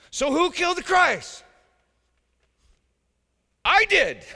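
high, loud proclaiming; shouted call and answer. Real, not acted. Preacher asking the flock who killed Christ, shouting the answer. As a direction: fling the question and answer it.

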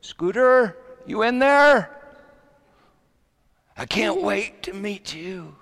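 high, drawn-out calls building in eagerness; acted-out doting dad, voice climbing high; father talking to unborn baby. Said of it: "I'd talk to her belly".

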